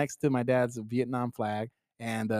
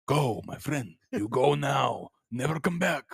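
gorilla voice; 4 dB quieter, slower than usual. Retold or imitated. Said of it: "He was trying to tell you".

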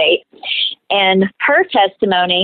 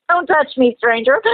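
mock snub; 5 semitones higher than usual. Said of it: "No, I didn't".

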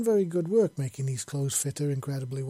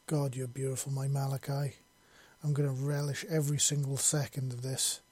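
soft purr. Acted. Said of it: "she purred softly".

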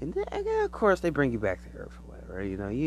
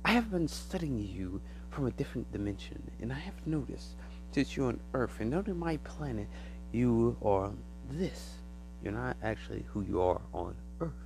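quiet, measured alien revelation; soft alien voice; 5 dB quieter than usual. Retold or imitated. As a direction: tell them a secret from another dimension. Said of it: "and he's like".

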